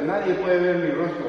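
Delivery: a hint of a low, solemn divine voice; voice of God. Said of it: "dijo Dios". (voz de Dios levemente actuada, más grave)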